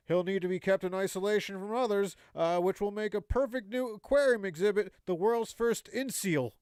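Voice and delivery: measured mock newscast delivery; joke news read. Reading a sea otter headline to the co-host, mock news read. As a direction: read it out like a comic headline, landing the punchline.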